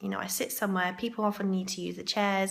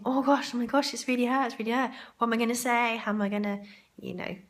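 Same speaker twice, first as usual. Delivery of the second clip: excited; 3 semitones higher, faster than usual. Retold or imitated. Thinks it's Mary Berry.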